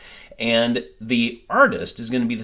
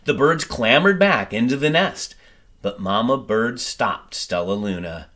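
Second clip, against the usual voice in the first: gentle storybook reading, lively and clear; story narration; 4 dB louder than usual. A narrator's reading. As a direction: read it like a bedtime picture book. Reads picture book aloud.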